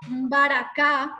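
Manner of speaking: slow "baracá" opening on a nasal mb; teacher's slow "baracá" with nasal force at the start; nasal first syllable. Shown as a demonstration. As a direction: hum an m into the b of "baracá". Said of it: "en la primera sílaba hay esa, esa fuerza nasal".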